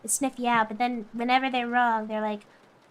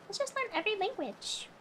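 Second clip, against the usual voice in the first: "Let's just learn every language" repeated higher and much softer; soft echo; 7 semitones higher, 10 dB quieter than usual. Acted. Echoing her own idea to chat, soft and higher. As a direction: murmur it back to yourself, dreamy. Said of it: "repeated line".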